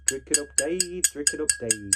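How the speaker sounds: lightly put-on chanted catchphrase; Seaside Mark. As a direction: imitate a YouTuber's repeated catchphrase. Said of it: "When will the Seaside Mark references stop".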